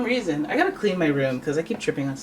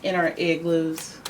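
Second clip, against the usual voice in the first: put-on light American accent, slowed on igloos; playful put-on American voice; mock American accent. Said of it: "why am I doing an American accent for that?".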